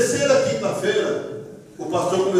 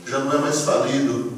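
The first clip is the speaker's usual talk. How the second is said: fatherly pronouncement; 7 semitones lower than usual. Retold or imitated. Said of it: "o pastor olha pra mim e diz assim".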